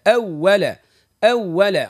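أول with the doubled و pressed; teacher demo of the waw shaddah. Shown as a demonstration. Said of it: "بين الشدة".

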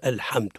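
الحمد with ح exaggeratedly thick and dark; over-heavy ha. Shown as a demonstration. Teacher shows the second ha mistake, over-thickened vowel. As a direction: make the "ha" in الحمد too heavy, cut short. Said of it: "أو المبالغة في تفخيمه".

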